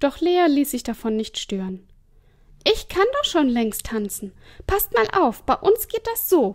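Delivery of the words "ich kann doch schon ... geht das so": eager, high voice projected loudly to the room. Lea, ignoring the governess, calls to Mona and Ina: calling out. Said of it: "rief sie".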